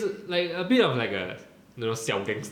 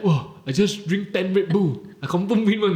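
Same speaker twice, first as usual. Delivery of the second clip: put-on a kid buzzing on energy drinks, louder; hyped-up kid; 7 semitones higher, 4 dB louder than usual. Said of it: "He was like".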